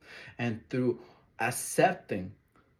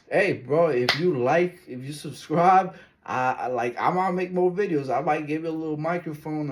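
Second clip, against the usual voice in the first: calling out to viewers; 2 semitones higher, 4 dB louder than usual. Real, not acted.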